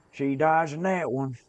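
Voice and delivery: high excited exclamation. Real, not acted. Excited game reaction.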